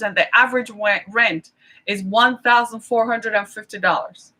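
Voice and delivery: breathless; speaking short of breath. Real, not acted. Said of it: "I'm out of breath".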